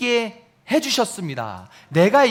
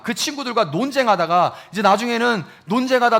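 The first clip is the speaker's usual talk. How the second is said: normal talking voice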